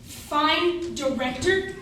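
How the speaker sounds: slow, drawn-out scoffing question; incredulous echo. Acted. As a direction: repeat her words back, not believing them. Echoes her praise in disbelief.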